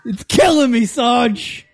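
whiny soldier. Pretend. Mock soldier excusing himself.

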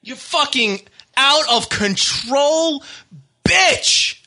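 bursting into a shout on bitch; real angry shout; angry outburst. Real, not acted. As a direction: snap it out in fury. Angry rant at harasser.

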